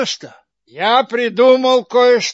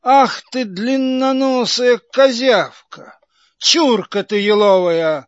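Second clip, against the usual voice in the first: angry. Acted. Karabas berates Buratino.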